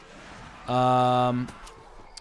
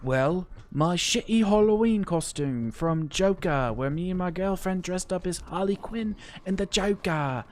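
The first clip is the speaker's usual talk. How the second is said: slightly raised youtuber voice; Dalek JD impression; 5 semitones higher than usual. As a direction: keep the high youtuber tone going. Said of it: "my Dalek impression".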